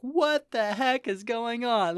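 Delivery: high, slow, drawn-out disbelief; retold bewilderment. Viewer recalling first watch of the anime, bewildered. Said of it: "I remember watching this ... being like".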